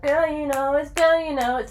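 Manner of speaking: put-on "Girl, you know it's" sung high and cut off, then looped like a skipping tape; skipping record. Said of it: "the track skipped".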